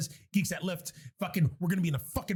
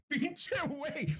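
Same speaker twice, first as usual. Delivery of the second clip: higher, drawn-out mock Mexican delivery; Mexican slang imitation; 6 semitones higher, much slower than usual. Host trying out Mexican slang on co-host, playful Mexican accent. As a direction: stretch it out in playful Mexican Spanish. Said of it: "Isn't that Mexican".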